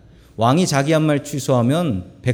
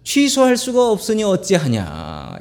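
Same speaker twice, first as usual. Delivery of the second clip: slow, mild sighing complaint; a touch of a weary father's sigh; sighing lament; 4 semitones higher than usual. Retold or imitated. Father sighing over his vow, slow and mildly sad. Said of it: "이러면서 한숨을 쉽니다".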